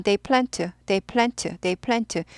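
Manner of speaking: "they plant" run quickly, ending swallowed; rushed "they plant", no clear ed; fast blurred. Shown as a demonstration. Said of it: "빨리 입모양만 하고 빨리빨리 지나갑니다".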